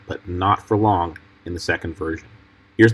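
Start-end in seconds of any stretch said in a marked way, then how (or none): 0.1-1.2 slow and drawn out. Retold or imitated. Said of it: "I just liked the way he said".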